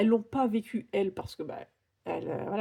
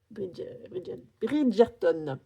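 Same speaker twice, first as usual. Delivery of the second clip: English accent on Bridgerton; much slower than usual. Real, not acted. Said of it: "avec mon accent".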